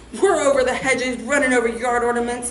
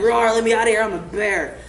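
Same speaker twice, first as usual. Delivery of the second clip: bear voice. Acted. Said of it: "a giant bear under the hood".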